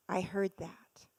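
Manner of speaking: hushed, slow, stunned whisper. Real, not acted. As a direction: let it sink in, barely breathing. Quiet realization after the slap.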